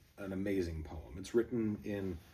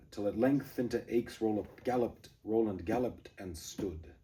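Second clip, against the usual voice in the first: poem reading; 2 semitones higher than usual. Shown as a demonstration. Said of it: "this very last stanza".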